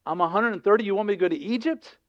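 reluctant, mildly anxious protest; mildly afraid. Acted. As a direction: voice a hesitant man objecting. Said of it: "he's afraid".

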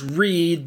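"read" said as "reed"; long ee in "read", rhyming with "need"; present-tense pronunciation. Shown as a demonstration. Teacher giving an example sentence, present-tense pronunciation. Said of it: "R E E D".

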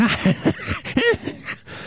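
high gleeful villain cackle; evil cackle. Acted. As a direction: cackle like a monster enjoying the hunt. Monster laughs after threat.

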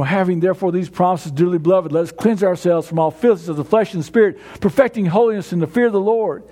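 low, gentle scripture reading. Shown as a demonstration. Verse recited softly, then again.

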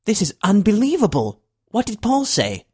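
can't contain it, nearly shouting with glee; thrilled disbelief. Acted. President to Eric on the alien signal, high excited outburst.

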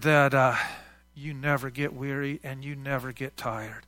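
earnest, measured prayer voice. Real, not acted. Pastor leading the congregation in closing prayer, earnest. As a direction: pray aloud to God, steady and sincere.

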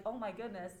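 earnest apology, key words leaned on; acknowledging apology. Acted. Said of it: "simple act of acknowledging that".

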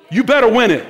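loud mock-parent warning; parental shout. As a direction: bark it like a parent at the door. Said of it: "parents told you this".

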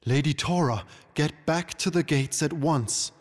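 high-pitched, firm command; imperious royal command; queenly order. A narrator's reading. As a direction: order a subject back sharply. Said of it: "the Unicorn Queen ordered".

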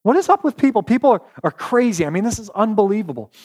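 exasperated, rising high on what is up with people; frustrated. Retold or imitated. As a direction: throw up your hands in disbelief. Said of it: "Jeremiah is just so frustrated".

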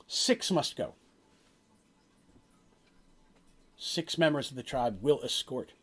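slow, portentous prophecy with long pauses; solemn prophet. Acted. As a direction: deliver a grave omen, phrase by phrase. Game master voices the prophet's prophecy.

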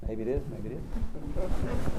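slow, drawn-out shrug; slow knowing refrain. Acted. Preacher repeats the farmer's refrain to the church, slow. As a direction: let it hang, unhurried and knowing.

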